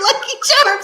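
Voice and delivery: high, laughing mock yell. Shown as a demonstration. Woman suggesting a cereal catchphrase to her friend, high laughing yell. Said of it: "Why don't you just start yelling".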